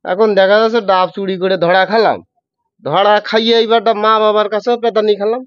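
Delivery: telling the coconut theft story in Jessore dialect; a lightly voiced Jessore Bengali telling. Shown as a demonstration. Host asks for Jessore dialect, guest tells it in Jessore dialect. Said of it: "তুমি যশোরের ভাষায়".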